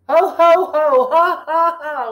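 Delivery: high, loud ho ho laugh; jolly belly laugh; Santa laugh. A narrator's reading. Santa laughing at the surprise turkey, loud and high. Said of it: "laughed Santa".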